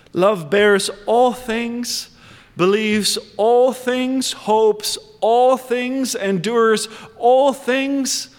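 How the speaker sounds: slow, deliberate reading of scripture, rising on each all. Acted. Preacher reading the love passage to the congregation, slow and deliberate. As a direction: read the passage slowly, leaning on every word. Reads scripture slowly, building.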